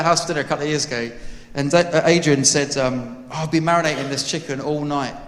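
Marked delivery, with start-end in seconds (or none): 3.3-5.1 badly faked South African accent. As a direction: mimic the host's South African accent, not quite landing. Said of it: "That was my South African attempt".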